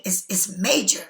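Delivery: breathy whispered aside. Real, not acted. Reading tarot to a viewer, a hushed whisper. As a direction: lean in and whisper it like a secret.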